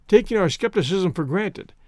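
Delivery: usual speaking voice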